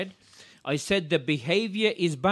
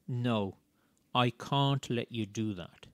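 calm, low, gentle refusal; soft but firm no; 6 semitones lower, 4 dB quieter, slower than usual. Shown as a demonstration. Parent to hurting child, gentle and calm. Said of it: "and say to them".

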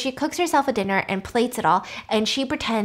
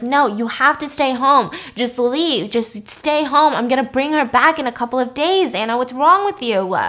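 angry; 3 semitones higher, 4 dB louder than usual. Retold or imitated. Dad yells at Anna.

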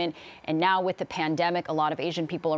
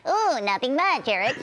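laughing; 5 semitones higher than usual. Real, not acted. Host plays along laughing.

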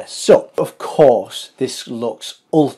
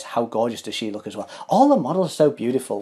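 usual speaking voice

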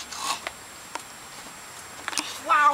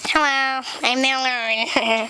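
low, slow goofy voice; low character voice; 7 semitones lower, slower than usual. Acted. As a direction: introduce a goofy new guy. New character introduces himself.

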